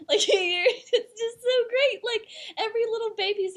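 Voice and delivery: can't stop laughing while describing it. Real, not acted. Friend laughing to her co-host about a Pope meme, real laughter.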